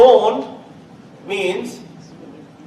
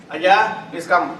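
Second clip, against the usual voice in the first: threatening; 4 dB louder, much slower than usual. Shown as a demonstration. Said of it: "Oh, you are in for something".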